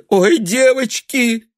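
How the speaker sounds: high, slow, wailing cry of despair; anguished cry. A narrator's reading. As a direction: let it burst out, close to tears. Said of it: "вырвалось вдруг у Наташи". (отчаянный вскрик)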